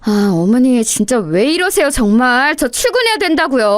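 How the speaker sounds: exasperation rising in pitch toward the end; exasperated protest. Acted. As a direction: plead in frustration to be let go. Late wife protests to mother-in-law. (짜증 섞인 항변)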